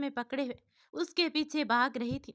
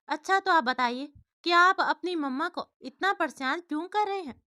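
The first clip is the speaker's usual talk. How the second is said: asked with a smile, a bit higher and louder; smiling question; 4 semitones higher, 6 dB louder than usual. A narrator's reading. Jyoti kneels to ask little Chintu, smiling. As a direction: coax the child gently with a smile. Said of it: "मुस्कुराते हुए पूछा".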